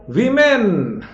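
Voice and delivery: high, drawn-out वीमेन; long 'vee' in वीमेन; model pronunciation. Shown as a demonstration. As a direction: announce वीमेन as 'vee-men', falling off. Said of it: "वीमेन कहा जाता है".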